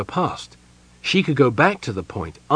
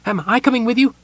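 high kender voice, uneasy and squirmy; a nervous little kender guessing at the curse; high, uneasy kender worrying aloud; kender Tasselhoff; 13 semitones higher, 4 dB louder, faster than usual. A narrator's reading.

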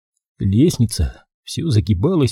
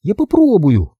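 put-on determined girl; 8 semitones higher than usual. A narrator's reading. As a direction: gamely try to stand. Girl tries to stand.

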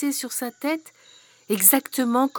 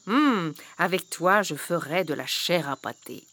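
greedy witch; 4 semitones lower than usual. Acted. Witch sizes up children to eat.

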